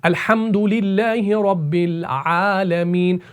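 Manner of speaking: slow, measured recitation of अल्हम्दुलिल्लाहि; tajweed recitation; Quran recitation. Shown as a demonstration. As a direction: recite it slowly, like in prayer. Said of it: "ऐसे से".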